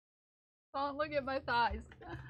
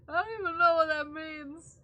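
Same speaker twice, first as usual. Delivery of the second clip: indignant shout; 4 semitones higher, 5 dB louder than usual. Real, not acted.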